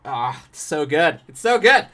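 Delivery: swooning, rising to a high loud gush; rapturous. Real, not acted. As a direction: gush over the film, climbing. Rapturous praise of movie.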